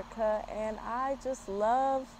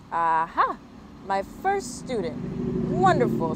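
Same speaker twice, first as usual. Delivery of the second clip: chirpy, sing-song little bird teacher, first student stretched slowly; a hint of a singing bird; 4 dB louder, slower than usual. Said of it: "she sang".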